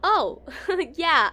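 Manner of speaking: embarrassed laugh. Acted. Developer laughing off a question about her fanfiction, flustered laugh. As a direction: laugh it off, caught out and a bit embarrassed.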